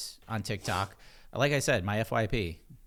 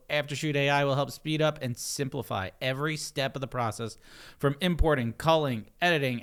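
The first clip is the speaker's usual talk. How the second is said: radio voice; 4 semitones higher, 5 dB louder than usual. Acted. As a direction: read it like a radio DJ. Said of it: "like, radio mic voice".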